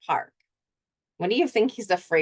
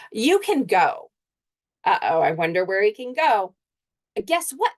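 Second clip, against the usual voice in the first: put-on boy talking to his dog; 2 semitones higher than usual. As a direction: tell the dog the news, then fret. Boy Jace talks to his dog.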